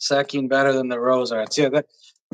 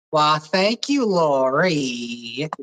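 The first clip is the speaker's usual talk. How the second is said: put-on country accent; much slower than usual. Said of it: "I love all Harsh's impersonations".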